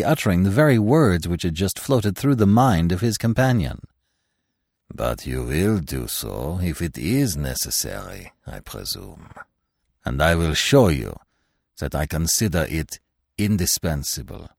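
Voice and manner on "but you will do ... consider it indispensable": low, cold, insistent; low stern stranger. Acted. Vanderhausen presses his terms.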